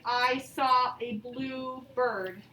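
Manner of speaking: put-on slow, even statement read to kids; slow telling sentence. Shown as a demonstration. Teacher reads a telling sentence to the class, slow and even. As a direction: read it slowly and evenly, like a plain statement. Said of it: "a sentence that just tells us something".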